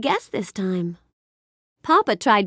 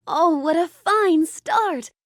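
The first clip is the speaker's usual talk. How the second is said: admiring praise; 5 semitones higher, slower than usual. Acted. Praises the guest's beginning.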